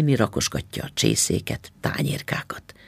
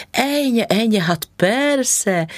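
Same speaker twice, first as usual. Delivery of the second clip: mild exclamation; 10 semitones higher, slower than usual. A narrator's reading. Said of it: "kiáltotta néni".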